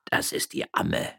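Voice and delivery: whispered, slow murmur. Acted. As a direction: mutter it under your breath. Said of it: "murmelte Gardunia". (leise gemurmelt)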